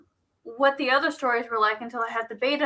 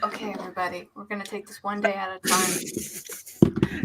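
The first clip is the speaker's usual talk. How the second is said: soothing self-help coach; 3 dB quieter than usual. Retold or imitated. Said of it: "tell me how to, like, feel better about myself".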